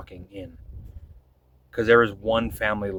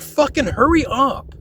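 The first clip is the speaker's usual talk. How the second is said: irritated hurry up; 13 semitones higher, 5 dB louder than usual. Retold or imitated. Annoyed retelling at the family.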